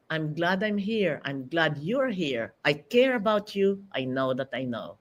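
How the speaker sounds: slightly low, softened self-reassurance; calm mantra. Shown as a demonstration. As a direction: recite it gently and evenly, like a confidence mantra. Demonstrates a calming pre-stage mantra.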